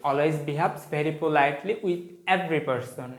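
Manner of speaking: each word spaced out slowly for the class; slow dictation. Shown as a demonstration. Teacher dictating to students, slow and deliberate. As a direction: read it out slowly so students can copy.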